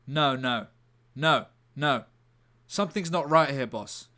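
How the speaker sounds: loud, urgent cop-show delivery; a gruff inspector sounding the alarm; acted detective alarm. Detective to his boss, loud and urgent. Acting out detective script scene.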